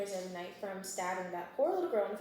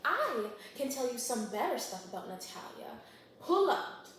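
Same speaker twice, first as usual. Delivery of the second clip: defiant Meredith imitation; 3 semitones higher than usual. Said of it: "Meredith's like".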